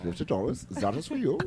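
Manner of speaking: soft, low mock German accent. Shown as a demonstration. Comic showing how a German would tip, quiet German accent. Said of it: "That's what you would say".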